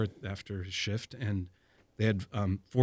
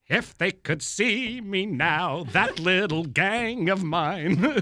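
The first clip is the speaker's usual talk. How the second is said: proud inner thought; 5 semitones higher, much slower than usual. Retold or imitated. Proud thought while racing ahead.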